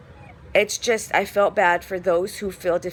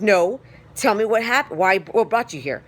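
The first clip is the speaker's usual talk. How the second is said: louder, pushy retelling of the doctor; impatient doctor; 3 semitones higher, 5 dB louder than usual. Retold or imitated. Doctor cutting off his patient, mock impatient, louder. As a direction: push the question harder, like a doctor cutting her off. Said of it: "He's like".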